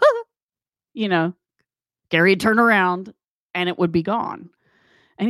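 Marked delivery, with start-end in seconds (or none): 0.0-0.2 imitated gasp. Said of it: "every time we go".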